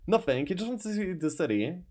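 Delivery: nervous. Acted. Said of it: "you say nervously".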